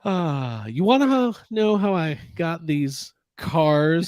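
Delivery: slow, drawn-out teasing villain voice; mock villain line. Teasing cohost about his wife, slow mock villain voice. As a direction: draw it out like a movie villain, playfully. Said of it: "That's what Paul's gonna say to his wife".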